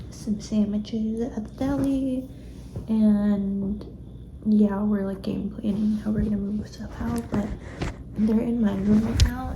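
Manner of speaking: talking with a retainer in; wearing a retainer. Real, not acted. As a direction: retainer in, words a bit lisped. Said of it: "I have my retainer in".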